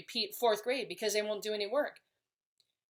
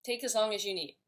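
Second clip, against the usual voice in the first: friendly and easygoing; faster than usual. Shown as a demonstration. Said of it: "If I say something like".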